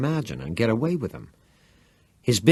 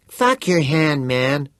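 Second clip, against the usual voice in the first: annoyed retort; 6 semitones higher, 5 dB louder, slower than usual. A narrator's reading. Vern's angry retort.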